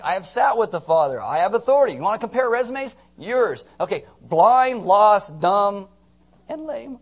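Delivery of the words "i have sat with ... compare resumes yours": asserting authority. Retold or imitated. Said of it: "It's like".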